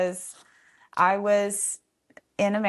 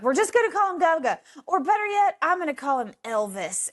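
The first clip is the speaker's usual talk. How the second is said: a giddy friend cracking himself up; laughing volunteer; 9 semitones higher than usual. Retold or imitated. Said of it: "he's like".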